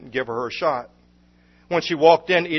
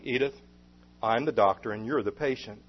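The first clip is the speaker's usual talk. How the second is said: gently, a doctor soothing a patient; soft and kind, a bit quieter; gentle; 2 semitones lower, 4 dB quieter than usual. Acted. Doctor gently reminds Edith he is the doctor, gentle. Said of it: "said gently".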